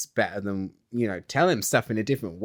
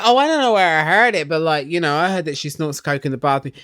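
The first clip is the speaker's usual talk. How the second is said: mock innocent gossip; 3 semitones higher, 4 dB louder, faster than usual. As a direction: fake innocence, then drop the rumor. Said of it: "she's like".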